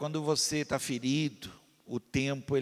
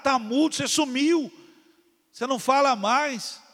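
higher, louder fiery exhortation; preaching at full force; 7 semitones higher, 8 dB louder than usual. Acted. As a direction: press the congregation hard, like a pulpit warning.

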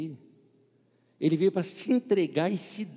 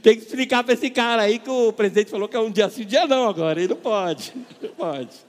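louder, cracking up while joking; louder mock order, half laughing; laughing mock instruction; 5 semitones higher, 8 dB louder than usual. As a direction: deliver the joke through laughter. Joking message to the worker.

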